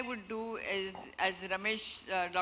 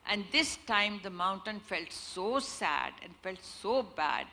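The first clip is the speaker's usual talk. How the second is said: storytelling narration. A narrator's reading. Storyteller telling an audience a fable, expressive narration. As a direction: draw the listeners into a fable.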